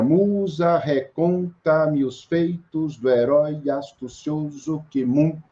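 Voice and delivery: Musa, reconta-me, slow, pausing on each tonic; scanned hexameter. Shown as a demonstration. Teacher scanning Homer's first verse aloud for the students, slow and stressed. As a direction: chant the verse slowly, beat by beat on the stresses. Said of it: "onde eu parar um pouco é que onde tá a tônica".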